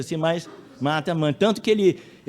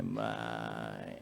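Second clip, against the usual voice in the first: put-on soft, creaky, pleading little-boy voice, much quieter; 7 semitones lower, 15 dB quieter than usual. Son pleading with his mother in a creaky whiny little voice. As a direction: whimper it like a creaking castle door. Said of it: "aquela vozinha arranhadinha de porta de castelo abrindo".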